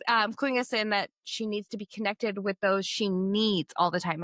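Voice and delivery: ordinary talk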